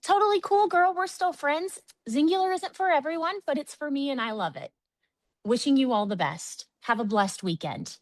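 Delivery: bright, high, sugary voice that eases down; sweet brush-off. Retold or imitated. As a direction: let them go with a sweet smile. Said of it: "I'm like".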